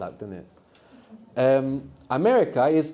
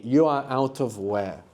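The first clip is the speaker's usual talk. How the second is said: slow literal gloss; slower than usual. Shown as a demonstration. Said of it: "Or more literally".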